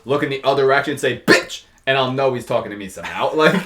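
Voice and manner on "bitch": sharp imitated call. Imitating someone calling from down a hill, sharp. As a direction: punch out one word like a distant summons. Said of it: "I'll hear someone down a hill".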